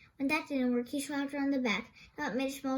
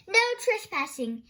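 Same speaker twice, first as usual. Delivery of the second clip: loud, higher shout; yelled; 6 semitones higher, 7 dB louder than usual. Acted. Thorndyke shouting at a trespassing Nelson, loud. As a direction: bark the sign's words. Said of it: "Thorndyke yelled".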